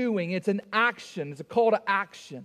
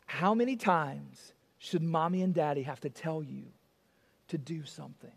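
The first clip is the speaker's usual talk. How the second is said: low, weary parental lecture; long-suffering parent spelling it out; exasperated parent; 6 semitones lower, 5 dB quieter than usual. Acted. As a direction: labour each phrase, dropping softer at the end. Acts parent with headache asking again.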